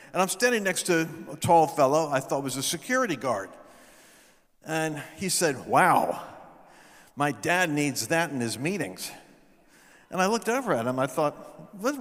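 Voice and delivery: ordinary talk, nothing marked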